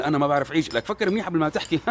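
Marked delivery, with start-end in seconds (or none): 0.0-0.7 laughing disbelief. Retold or imitated. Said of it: "تخيل إنه أنا ما بعرف أعيش".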